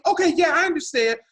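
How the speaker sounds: high-pitched white-guy impression; general white man. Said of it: "an impression I file under general white man".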